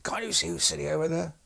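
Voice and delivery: high-pitched outraged demand, voice jumping up; apoplectic rage. Retold or imitated. Warrant officer scolding the pilot, high-pitched outrage. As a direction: play the furious warrant officer squeaking with rage. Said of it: "almost apoplectic with rage".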